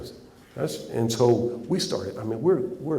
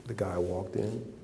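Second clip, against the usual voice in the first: hushed whisper; 8 dB quieter than usual. Real, not acted. Hushed reveal of opponent's entrance.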